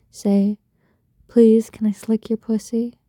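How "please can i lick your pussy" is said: sweetly modelled plea; sweet asking. Shown as a demonstration. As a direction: show a partner how to ask sweetly. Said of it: "Can you ask sweetly?".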